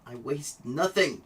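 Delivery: emphatic and adamant, pitch jumping on the last word; vehement declaration. Real, not acted. Vlogger insisting he means it, vehement. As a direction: punch out nothing with conviction. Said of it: "hear the tone of my voice".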